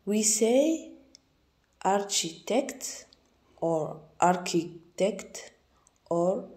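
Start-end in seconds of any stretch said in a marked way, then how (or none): 1.8-3.1 ARCHITECT said slowly, syllable by syllable; sounding out options. Shown as a demonstration. Teacher testing ways to pronounce a word, sounding it out slowly. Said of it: "pronunciation of the colored letters". 4.2-5.5 ARCHITECT slowly, with a K for the ch; alternative pronunciation. Shown as a demonstration. Teacher offering another option to learners, K-sound pronunciation. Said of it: "pronunciation of the colored letters".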